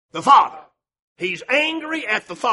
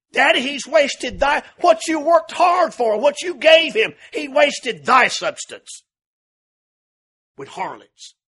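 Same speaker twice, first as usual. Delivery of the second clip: louder, slow, jabbing accusation to his father; accusing son; 5 semitones higher, 6 dB louder, slower than usual. Retold or imitated. Older son accusing his father before the household, loud and slow. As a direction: hurl the blame at Daddy, word by word. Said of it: "He was an accuser".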